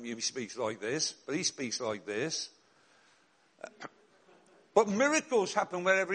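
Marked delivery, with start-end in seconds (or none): 0.0-1.1 slow, low mock preacher voice; lightly put-on old man; imitating quaint speech. Mocking the odd manner in Birmingham, slow and low. 1.1-2.5 slow, low put-on preacher voice; imitating quaint speech again. Contrasting how he talked with Birmingham, slow and low.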